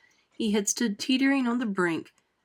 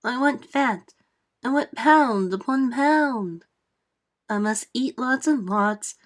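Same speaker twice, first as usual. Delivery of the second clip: greedy Aunt Spiker; 3 semitones higher, slower than usual. Acted. Aunt Spiker voiced in verse.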